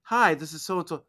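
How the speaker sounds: bright greeting on the answering machine; sweet giggly wife. Retold or imitated. Voicing the late wife's answering machine message, sweet and giggly. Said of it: "she's all sweet and giggly".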